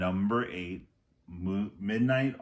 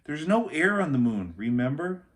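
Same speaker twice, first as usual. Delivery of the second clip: put-on lightly raised urgent boy voice; Jack warning; 7 semitones higher, 5 dB louder than usual. A narrator's reading. Jack warns Annie there is no air, urgently. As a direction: remind her with alarm.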